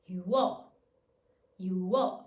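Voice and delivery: "Yuo" back up to speed, ywo; short demo of "Yuo", Y and W gliding into O; single glide. Shown as a demonstration. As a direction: say "Yuo" firmly as one syllable. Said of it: "Y sound plus W sound plus regular".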